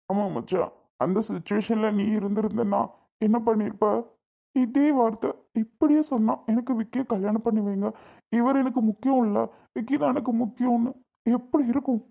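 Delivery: tearful, pleading to be understood; crying. Acted. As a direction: plead through tears to a friend. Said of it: "இந்த அளவுக்கு அழுகுற?". (அழுகையோடு கேட்கும் குரல்)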